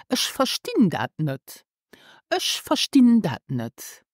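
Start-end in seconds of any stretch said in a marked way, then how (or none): 0.1-1.6 whispered first take; whispered answer. Shown as a demonstration. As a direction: whisper Ich verstehe das nicht. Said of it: "Do you remember how to say this".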